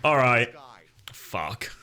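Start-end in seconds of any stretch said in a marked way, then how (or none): 1.1-1.7 breathless whispered swear under breath; whispered curse. Real, not acted. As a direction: mutter it as a whisper.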